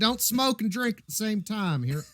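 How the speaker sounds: high, rough country geezer; a lightly voiced old codger; folksy old man.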